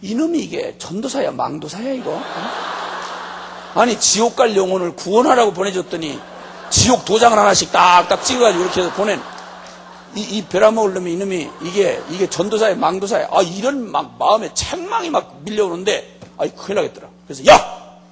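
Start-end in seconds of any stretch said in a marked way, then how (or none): 0.0-13.3 imitating a stern scolding; rebuke. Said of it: "주님께서 막 내 내면에 책망을 하신대". 17.5-18.0 sudden loud shout to stop someone; calling out. Retold or imitated. Calls after the departing man.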